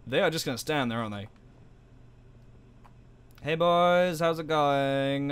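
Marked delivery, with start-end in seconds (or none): 3.4-5.3 loosely imitated Black American accent; put-on Black American accent. Player voicing guys after a headshot, put-on Black American accent. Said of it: "made their voice black".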